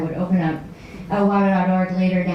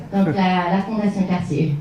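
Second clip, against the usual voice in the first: French accent; in French, as requested. Shown as a demonstration. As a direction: say it smoothly in French. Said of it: "Can you say it in French?".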